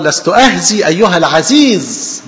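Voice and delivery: slow, composed and unshaken; calm and steady. Shown as a demonstration. Paul calmly answering Festus, slow and steady. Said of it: "بولس بثبات، بثقة".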